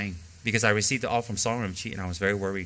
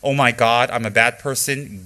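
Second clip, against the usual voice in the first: much louder, slow mock panic; imitated hysterical "Oh my God", louder and slow; mock hysterical guilt; 6 dB louder, slower than usual.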